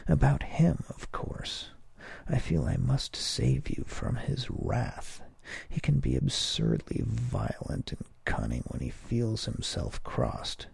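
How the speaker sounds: high, hushed woman's voice; a hint of a worried wife; lightly voiced woman. A narrator's reading. Ninette voiced in story.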